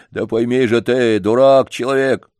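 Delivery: pushy janitor. Acted. Janitor voiced in story.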